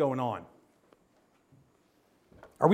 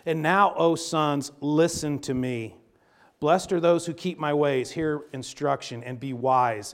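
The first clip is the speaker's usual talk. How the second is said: scripture reading. Acted. Reads Proverbs aloud.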